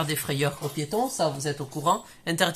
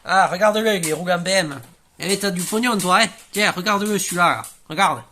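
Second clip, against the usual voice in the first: lance fort et narquois; interpellation moqueuse; 6 dB louder than usual. Acted. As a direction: crie pour se moquer du type en BM. Moniteur interpelle un conducteur riche. (moniteur qui crie sur un passant en BM)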